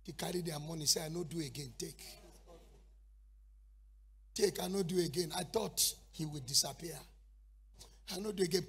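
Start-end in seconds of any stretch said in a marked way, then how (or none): 1.0-8.7 1 quiet remorseful Judas. Acted. Judas regretting.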